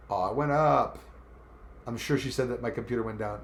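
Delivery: normal talking voice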